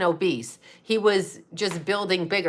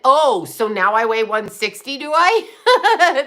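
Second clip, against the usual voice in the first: sarcastic comeback; 3 semitones higher, 5 dB louder, slower than usual. Retold or imitated. Mocking the relative's scale claim.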